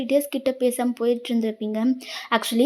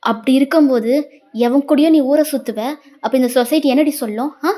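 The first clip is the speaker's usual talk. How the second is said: angry accusation; 5 dB louder than usual. Acted. Husband accusing wife in quarrel.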